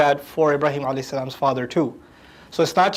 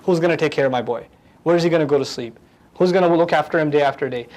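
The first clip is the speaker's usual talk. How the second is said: worried father; 2 semitones lower, faster than usual. Retold or imitated. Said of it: "there's a feeling going on".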